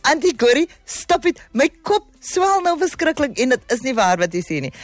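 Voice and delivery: squealing high, laughing off the praise; bashful protest. Real, not acted. Host protesting to a listener who praised her, high and giggly.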